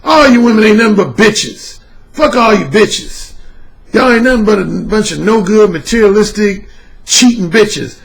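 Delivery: mock harsh ranting. Shown as a demonstration. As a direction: bark insults with contempt. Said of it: "in a real harsh tone".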